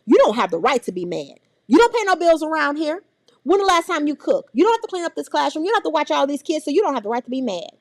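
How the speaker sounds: scolding parent. Retold or imitated. Teacher mocking how adults scold a mad child. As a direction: rattle off the classic grown-up lecture.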